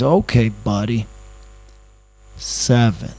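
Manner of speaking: lightly put-on Middle America voice, drawn out; Middle American accent. Driver haggling over the fare, mock Middle American accent. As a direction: imitate a slow-talking Middle American. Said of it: "going to do somebody from Middle America".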